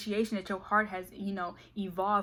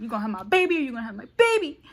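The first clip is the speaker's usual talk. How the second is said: fast, louder ultimatum; louder demand; 3 semitones higher, 6 dB louder, faster than usual. Retold or imitated. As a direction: repeat it with a punch. Repeated louder.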